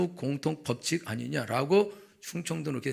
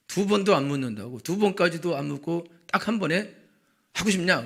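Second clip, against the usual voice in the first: loud, pressing insistence; 크게 몰아붙이듯; 3 semitones higher, 6 dB louder than usual. Real, not acted. Pressing point loudly. (큰 소리로 강조)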